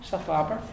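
"Sa flapper" with a light breathed hl for the chl; very soft ch. Shown as a demonstration. Teacher modelling Donegal "Sa flapper", soft breathed hl. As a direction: let the first sound of "flapper" be a soft h before l. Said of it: "very soft".

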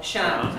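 shan with a short front A; short slender shan. Shown as a demonstration. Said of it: "it's short".

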